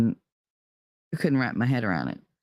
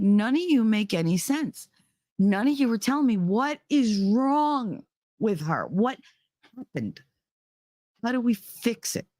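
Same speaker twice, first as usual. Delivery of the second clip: panicked pleading; 7 semitones higher than usual. Retold or imitated. Pleading with doctors about her baby.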